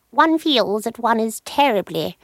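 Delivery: slow, lightly voiced queenly drawl; royal HRH voice. Royal character muses on web pages, slow queenly voice. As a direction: speak as a mild plummy royal. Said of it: "the royal character that I do".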